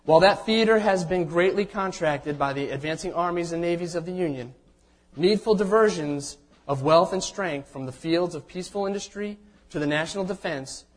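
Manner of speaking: solemn, measured formal reading; formal proclamation reading. Acted. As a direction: read it like a historic proclamation. Reads Lincoln's proclamation aloud.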